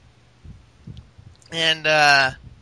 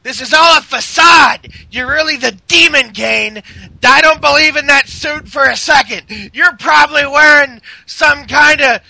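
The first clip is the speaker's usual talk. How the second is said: mock angry accusation. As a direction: shout him down like a heel on the mic. Seth accusing Kane in retelling.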